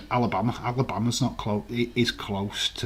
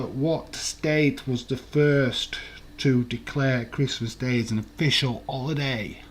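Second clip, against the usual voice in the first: slow, drawn-out put-on voice, pitched up a touch; hammed-up slow question voice; mock announcer read; 2 semitones higher than usual. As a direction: stretch each word out like a showy quizmaster. Quiz host rereads the question, drawn out.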